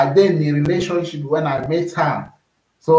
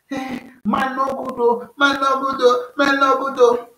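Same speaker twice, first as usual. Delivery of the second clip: high-pitched mock wail of complaint; mocking crying lament; 9 semitones higher than usual. Mock crying complaint to the audience. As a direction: whine it like someone crying over men. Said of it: "they go dey cry every time".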